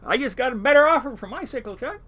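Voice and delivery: high, loud call down the aisle; shouting a fake better offer to Chuck down the aisle; hollering. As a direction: holler it across the room so Chuck hears. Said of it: "I hollered down the aisle".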